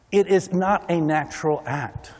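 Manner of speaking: slow, surprised realization; slowed-down note of surprise. Real, not acted. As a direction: say it as if just discovering it. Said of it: "with surprise in my voice".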